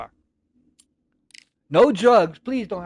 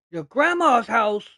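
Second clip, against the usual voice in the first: disbelief; 5 semitones higher, 5 dB louder, slower than usual. Retold or imitated. Incredulous at friend's plan.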